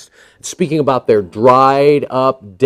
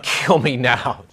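slow, softer mock despair; deadpan despair; 5 dB quieter, slower than usual. The bored kid on the ride, slow deadpan. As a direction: sigh it out, bored to death. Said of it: "I'm like".

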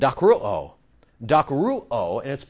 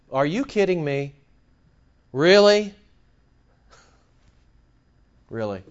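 irritated disbelief. Acted. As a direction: react with mild, weary irritation. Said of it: "Jesus has been irritated by people".

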